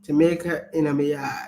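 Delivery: careful attempt at Jamaican patois; copied Jamaican accent. Shown as a demonstration. Speaker repeats after partner coaching, attempted Jamaican accent. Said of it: "Yes, you're welcome, babes".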